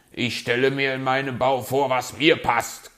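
loud, grumpy snap; growled retort. A narrator's reading. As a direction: snap back as a stubborn fox. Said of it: "knurrte er".

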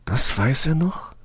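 high, eager little question; hope leaping into the voice; excited question. A narrator's reading. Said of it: "fragt sie aufgeregt". (Rose fragt aufgeregt, mit viel höherer Stimme)

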